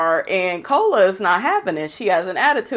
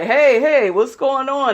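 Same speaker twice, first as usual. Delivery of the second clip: raised, higher-pitched imitation of surprise; mildly startled protest; 4 semitones higher than usual. Twin dodging a mistaken kiss, startled. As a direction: fend someone off, lightly acted.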